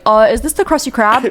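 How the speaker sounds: lightly voiced dopey starfish; Patrick Star impression. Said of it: "sounds like Patrick when he's like".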